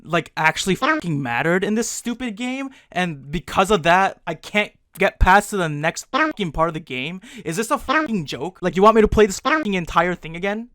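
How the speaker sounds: venting at the game in disbelief; exasperated rant. Real, not acted. Gamer learning his choices locked him out, furious rant. Ranting at forced game restart.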